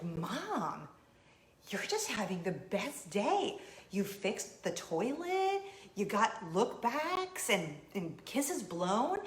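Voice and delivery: put-on slow, drawn-out teen list with lilting rises; stretched, teasing wonder; marveling teenager. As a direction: mimic a daughter marveling at mom. Teenage daughter marvels at mom's day.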